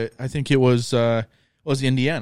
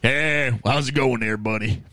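friendly Minnesota accent. Shown as a demonstration. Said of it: "I got a pretty".

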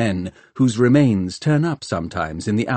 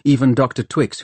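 ordinary delivery

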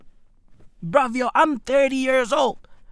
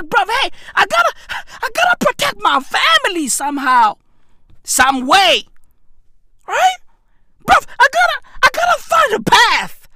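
mock panicked resolve. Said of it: "I was watching that shit like".

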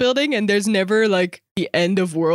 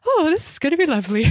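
chipper cousins; 9 semitones higher, faster than usual. Retold or imitated. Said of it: "They're like".

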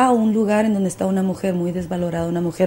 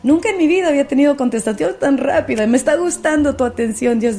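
delighted retold prayer, higher and louder; thrilled and a bit breathless, pitched up; excited; 6 semitones higher, 4 dB louder than usual. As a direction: gush happily to God about a fast answer. Retold thankful prayer, laughing mood.

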